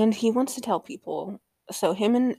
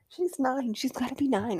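whispered, higher, emphatic; 5 semitones higher than usual. Real, not acted. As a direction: breathe it out as an insistent whisper. Insists the character is nine.

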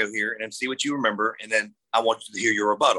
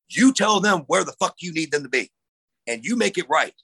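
retold scolding; 5 semitones higher than usual. Tommy scolding the referee backstage for a bad finish, heated retold scolding. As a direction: replay the boss chewing him out, a touch heated.

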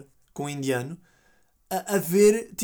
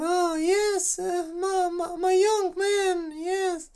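put-on much higher, slow, quavering old granny with a teary wobble; fake old lady voice; 11 semitones higher, much slower than usual. Scammer faking an old lady to the caller, quavering falsetto. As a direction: play a frail confused grandma. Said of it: "com a voz tipo".

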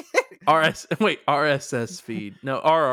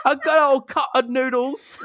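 high, laughing comic Irish voice; mock Irish accent; 10 semitones higher than usual. Co-host riffs on noodles with friend, mock Irish accent. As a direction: ham up a rough Irish accent, half laughing.

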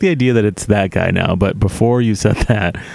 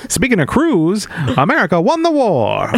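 chipper assistant voice; 10 semitones higher than usual. Pretend. Playing the earbud assistant.

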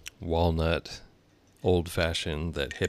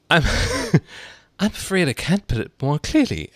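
high, laughing through the line; breaking into giggles; 10 semitones higher, 6 dB louder than usual. Acted. Alice laughing mid-line.

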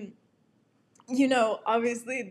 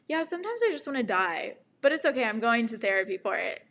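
fast, breaking into laughter mid-line; laughing retold quote; faster than usual. Telling friends in the car, laughing. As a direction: blurt it out, half laughing. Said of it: "I told them".

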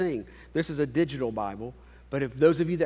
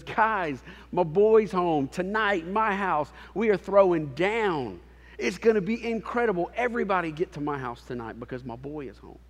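excited dad; 4 semitones higher than usual. Retold or imitated. Father calls friends to party.

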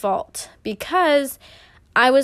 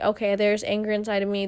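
calm observing; 4 dB quieter than usual. Shown as a demonstration. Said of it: "I could have been like".

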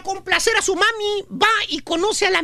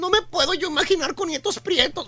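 snobbish disgust. Retold or imitated. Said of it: "le pone la cara de fuchi".

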